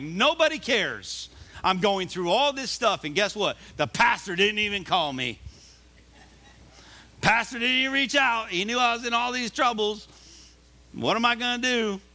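hammed-up hurt churchgoer moaning that nobody called; mock self-pitying complaint. Imitating congregant complaining about pastor.

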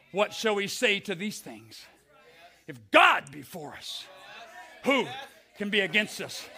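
scripture flung out as a battle cry; war cry. Shown as a demonstration. Pastor showing the congregation his war cry, proclaimed. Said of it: "this is my war cry".

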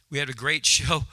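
a laugh breaks into the word great; great show said through a laugh. Real, not acted. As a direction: chuckle mid-phrase on great.

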